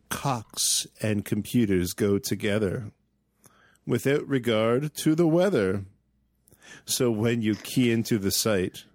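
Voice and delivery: measured, slow verse reading; poem recitation. Acted. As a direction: recite it like a poet.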